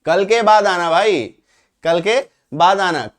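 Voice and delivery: a slow, friendly ask to a buddy; slow, casual mock request to a friend; casual example request. Shown as a demonstration. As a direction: say it as if asking a friend to come later. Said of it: "उदाहरण देखो".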